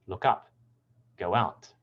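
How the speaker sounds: "Look up, go out" with UP and OUT stressed; "Look up, go out" with light verbs, stressed particles; stress on second word. Shown as a demonstration. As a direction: lean on "up" and "out", spoken as separate examples. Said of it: "primary stress on the second word".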